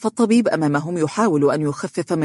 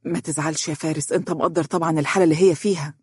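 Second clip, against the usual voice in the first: apologetic; faster than usual. Acted. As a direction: hush it into his ear, sorry. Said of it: "وقال باعتذار".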